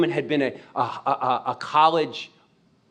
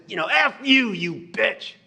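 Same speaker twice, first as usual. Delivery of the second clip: retold curse; 8 semitones higher, slower than usual. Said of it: "I cursed her".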